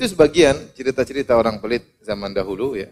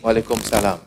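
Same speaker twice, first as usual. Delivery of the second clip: cold reply; 3 semitones lower than usual. Acted. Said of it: "jawabnya dengan dingin".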